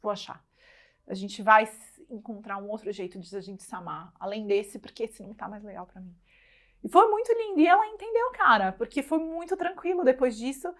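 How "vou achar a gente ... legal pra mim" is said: soft, hushed and tender. Retold or imitated. Mother quietly telling her daughter, tender and soft. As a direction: speak gently, as if she is right there. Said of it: "eu vou até me emocionar".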